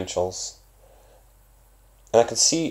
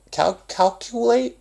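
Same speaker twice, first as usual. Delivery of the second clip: imitating a kid stumbling; 4 dB louder, slower than usual. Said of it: "and then there's the babies".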